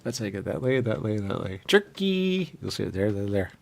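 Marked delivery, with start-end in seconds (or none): 1.7-2.5 excited shout. Real, not acted. Excited shout about jerky.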